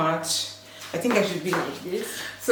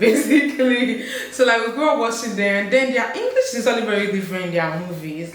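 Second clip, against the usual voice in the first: laughing; 3 semitones higher than usual. Real, not acted. Laughing about childhood crushes.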